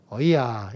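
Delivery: 어이야 said as the Gyeongsang grandma's drawn-out yes; Gyeongsang dialect. Shown as a demonstration. Preacher showing how Gyeongsang grandmas say 어이야, in dialect. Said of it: "경상도 말로 이 오냐를".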